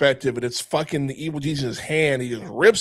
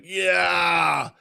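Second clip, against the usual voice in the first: dopey ogre voice; 3 semitones higher, much slower than usual. Retold or imitated. Ogre voiced while being stretched.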